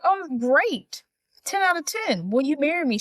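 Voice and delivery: high, eager acted proposal; mock excitement. William proposes on the spot, high mock eagerness. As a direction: pitch it up like an imitated keen suitor.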